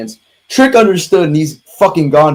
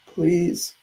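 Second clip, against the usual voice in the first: crying with rage; 8 dB quieter, slower than usual. Real, not acted. Distraught after a loss.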